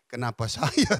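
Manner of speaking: rising, pleading kenapa saya; plaintive question. Retold or imitated. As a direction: ask why me with the word saya lifted. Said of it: "saya bilang". (bertanya memelas dengan nada naik)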